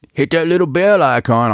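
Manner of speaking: high, singsong YouTuber pitch; YouTuber plug. Acted. Host parodying YouTubers' subscribe plugs, high YouTuber voice. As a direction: push the plug like a perky YouTuber. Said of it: "I'll sound like all those YouTubers".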